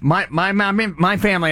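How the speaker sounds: stammering on my, my; tripping over the first words; stutter. Real, not acted. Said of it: "See, you're making me stutter".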